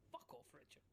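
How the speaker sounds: hissed whisper at Richard; whispered curse. Real, not acted. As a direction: breathe it out under your breath. Muttered aside during the game.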